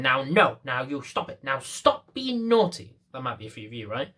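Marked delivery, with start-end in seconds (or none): 0.0-1.4 lightly voiced old lady, a touch louder; mock old lady. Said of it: "the old lady's going". 1.4-3.0 higher, slow, sing-song granny scold; a fussy old lady half-heartedly scolding her dog; mock old lady scolding. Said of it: "the old lady's going".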